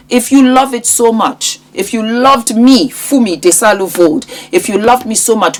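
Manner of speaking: lightly voiced friend pushing her point; a hint of a friend teasing her; friend's pleading challenge. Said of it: "And so she now said".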